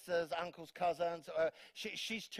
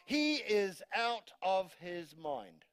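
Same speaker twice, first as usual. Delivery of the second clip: mock worried mum; much slower than usual. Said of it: "this is what mum was saying".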